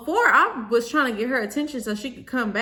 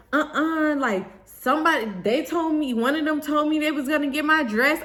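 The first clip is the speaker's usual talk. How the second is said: higher-pitched imitated protest; going off; 5 semitones higher than usual. Bridesmaid blaming others for the dress, going off. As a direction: mimic her defensive outburst. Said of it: "she starts going off like".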